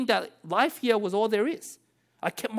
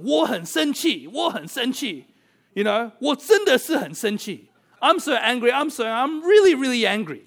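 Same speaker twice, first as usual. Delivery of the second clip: mock angry child; 4 semitones higher, 4 dB louder than usual. Grumpy child leaving park.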